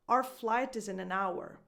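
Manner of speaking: "Our" as "ar", "hour" kept full; reduced our. Shown as a demonstration. Coach correcting the fully defined take, reduced our. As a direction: clip "Our" to "ar" but sound out "hour". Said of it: "first one is not fully defined".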